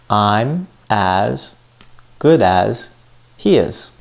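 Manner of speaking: "I'm as", "good as", "he is" said separately with pauses; broken into chunks. Shown as a demonstration. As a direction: spell out "I'm as... good as... he is" piece by piece. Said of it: "I said".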